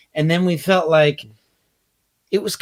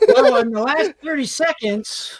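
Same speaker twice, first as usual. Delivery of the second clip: laughing; 9 semitones higher than usual. Real, not acted. Laughing while wrapping up.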